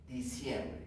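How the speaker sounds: soft, low gloss; hushed echo in Spanish; translation aside. Shown as a demonstration. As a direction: drop right down to give the translation. Softer translation after drill call.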